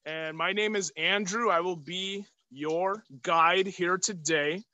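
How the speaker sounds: muffled behind a mask; talking through a face mask. Real, not acted. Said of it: "I will be wearing my mask for the duration of the video".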